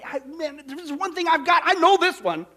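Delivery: high, emphatic declaration; certain. Acted. Paul declaring his confidence in God's promise, certain. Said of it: "But what did Paul say?".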